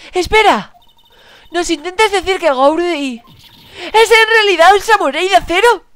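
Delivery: high, loud astonished gasp of realisation; shocked high detective voice. Acted.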